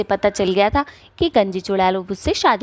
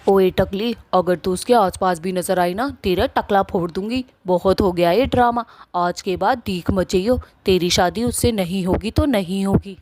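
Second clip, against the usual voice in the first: angry threat. Acted. Wife threatening the bald witch to stay away, angry.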